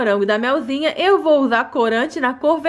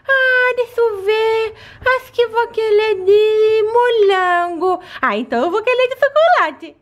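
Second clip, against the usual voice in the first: put-on high childlike doll voice; little girl voice; 5 semitones higher than usual. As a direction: play a small eager child. Doll children choosing flavours.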